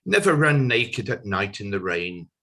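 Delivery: lightly performed verse, strong attack then falling; measured verse reading with pauses; comic poem recitation. Acted. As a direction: recite the silly poem line by line.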